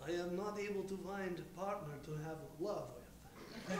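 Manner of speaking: very quiet, low robot. Acted. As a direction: sad robot talk. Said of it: "drop the voice".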